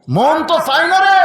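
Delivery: a lightly voiced reluctant father; pleading father. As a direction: stretch the রে into a plaintive whine.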